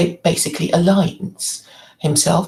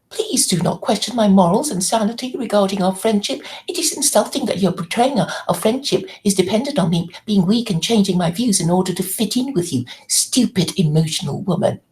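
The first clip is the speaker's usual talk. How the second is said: reading his reply; faster than usual. Retold or imitated. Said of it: "this was in response".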